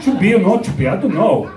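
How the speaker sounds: put-on hesitant, puzzled Brazilian-accented English; mock Brazilian accent. Teasing a Brazilian about Shakespeare, mock Brazilian accent.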